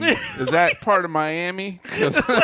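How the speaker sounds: laughing. Real, not acted. Cohost joking about where Toulouse is, laughing. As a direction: question through real laughter.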